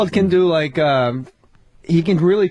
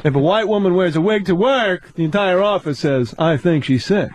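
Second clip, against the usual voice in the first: Seinfeld impression. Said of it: "do a little more".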